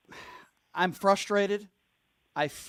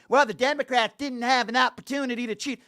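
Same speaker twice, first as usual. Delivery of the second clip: mocking the caller; 4 semitones higher than usual. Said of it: "and you're saying".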